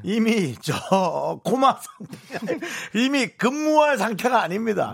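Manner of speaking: talking through a laugh. Real, not acted. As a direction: chuckle the words out. Laughs at own joke.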